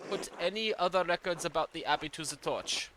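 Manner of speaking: put-on light German accent for an old churchman's letter; a hint of a German accent, formal and measured. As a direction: read it as a German-accented archdeacon. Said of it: "I accidentally gave him a German accent".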